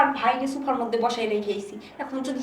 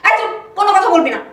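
loud, fast order to shut up; fierce shout; 3 semitones higher, 9 dB louder, faster than usual. Acted. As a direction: bark him into silence. Wife silencing husband. (স্বামীকে ধমক দিয়ে চুপ করানো)

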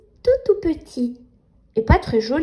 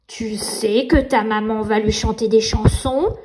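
nightmare voice. Acted. Nightmare taunting Nina.

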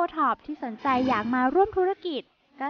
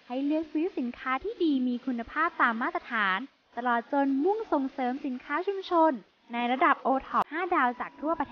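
measured promotional narration; polished promo voice-over; voice-over read. Acted.

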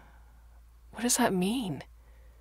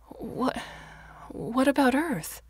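shocked; 8 semitones higher than usual. Acted. Shocked girl asks.

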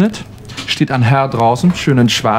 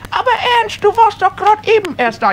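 put-on far higher, fluttery old wife voice; a surprised old wife, squeaky. Wife Elfriede answering her husband, far higher.

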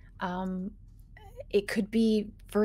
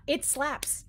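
game master scene-setting. Acted. Game master describes tentacle attack.

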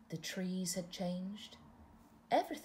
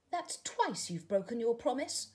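crying caterpillar; 5 semitones higher, 3 dB louder than usual. Acted. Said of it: "cried the caterpillar".

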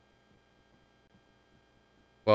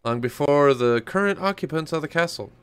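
put-on old British peddler voice; 3 semitones higher, faster than usual. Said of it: "this old English British peddler guy's voice".

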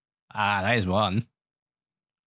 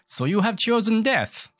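mock villain taunt; 11 semitones higher, 4 dB louder than usual. Taunting a monster in game.

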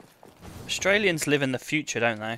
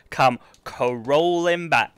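even slower taunt, Come crawling back stretched out; gloating; much slower than usual. Acted. Streamer rubbing the win in to chat, slow gloat. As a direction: draw it out to rub it in.

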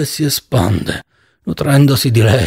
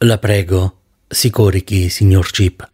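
lower, calm physician voice; doctor speaks lower, calm and polite; 5 semitones lower than usual. Acted. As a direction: soothe the patient as his doctor. Doctor character voice.

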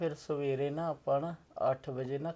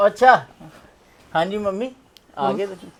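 higher and louder, bright welcome; cheery greeting; 6 semitones higher, 10 dB louder than usual. Acted. Son greets his mother on arrival, loud and high. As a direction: greet mom with a lift.

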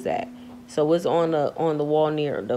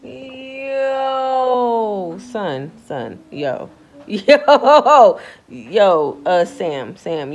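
louder, laughing disbelief; loud incredulous "yo, son"; excited shout; 4 semitones higher, 8 dB louder, much slower than usual. Real, not acted. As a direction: yell it through a laugh. Laughing shocked outburst.

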